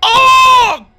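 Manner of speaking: terrified high shrieks; being chased. Real, not acted. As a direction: shriek in real disgust and panic. Spider crawling up his leg.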